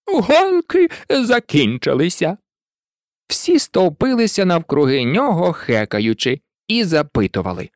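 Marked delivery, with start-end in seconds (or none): 0.1-2.4 high, drawn-out announcing cry; sudden call. A narrator's reading. Turkey suddenly ending the race, calling out high. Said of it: "індик раптом гукнув".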